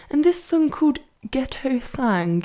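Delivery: "Thang" said carefully with a high voice; saying the song title. Shown as a demonstration. Struggling to pronounce the title in a Brighton accent. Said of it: "I can't really say it in my Brighton accent".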